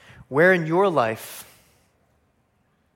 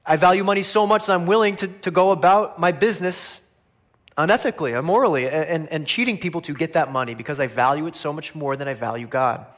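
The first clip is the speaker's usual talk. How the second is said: voicing Zacchaeus; 2 semitones higher than usual. Preacher voicing Zacchaeus justifying his greed, raised and quick. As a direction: rattle off the greedy excuse like Zacchaeus. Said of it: "what about Zacchaeus".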